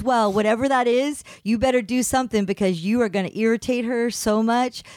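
hint of a teasing son warning; son's voice.

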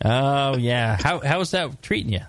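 lightly imitated Upper Midwest accent; playful hint of Fargo accent; mock Midwest accent. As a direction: tease in a put-on lakes-country Midwest accent. Teasing guest in his regional accent.

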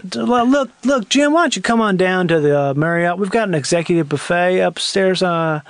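put-on understated Southern business accent; lightly Southern executive; Atlanta businessman. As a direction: invite a colleague in a subtle Atlanta accent. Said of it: "That's Atlanta businessman".

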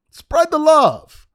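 loud, high, drawn-out cry; emphatic plea. Real, not acted. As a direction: belt it out slowly as an exasperated demand. Repeats it much louder, higher.

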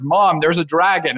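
lightly voiced kid calling Mom; story kid. Kid tells mom about a dragon in the house, lightly voiced.

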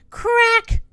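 high, loud sound-effect word; sharp storybook exclamation; sudden crack. Acted. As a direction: punch it out like a snapping branch. Narrator voices branch snapping.

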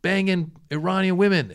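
hammed-up outraged commenter; mock upset. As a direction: act out an indignant troll. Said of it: "he was clearly upset".

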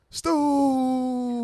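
high, loud yell of the keeper's name; excited shout. Retold or imitated. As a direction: call out his name in excitement. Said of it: "I was ready to say".

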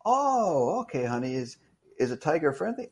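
a caring mother asking; mom's voice. Retold or imitated. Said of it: "Hey, Mom".

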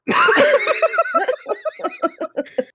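a real squeal of laughter; high laughter. Real, not acted. Cracking up at self.

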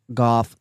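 "Goff" said with the L left out; chat's pronunciation demo. Shown as a demonstration. Showing chat how the word is said, "Goff" without L. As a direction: say "Goff" with no L sound. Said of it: "the way you pronounce it".

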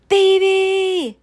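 loud, high scream of a name. A narrator's reading. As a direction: scream for your sister in alarm. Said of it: "Eugenia screamed".

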